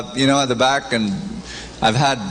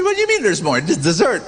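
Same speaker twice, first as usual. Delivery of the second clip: shocked; 4 semitones higher, faster than usual. Retold or imitated. Shocked at more courses.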